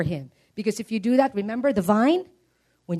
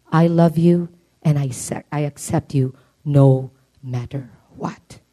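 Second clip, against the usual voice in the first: fatherly reassurance; 4 semitones lower than usual. Retold or imitated. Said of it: "the voice of your daddy saying".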